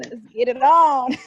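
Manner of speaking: loud and high, laughing through it; laughing echo. Real, not acted. Host echoing her guest's joke while laughing. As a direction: toss the line back mid-laugh.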